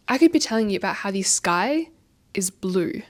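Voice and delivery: pausing to make "the sky is blue" sound important; dramatic pause. Shown as a demonstration. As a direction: pause before "is blue," for weight. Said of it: "it sounds more important".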